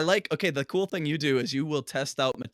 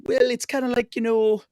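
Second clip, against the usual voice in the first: high-pitched professor impersonation; imitating a thinker picking through an idea; Jordan Peterson; 8 semitones higher than usual. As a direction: pitch it up and muse haltingly. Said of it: "same thing with Jordan Peterson".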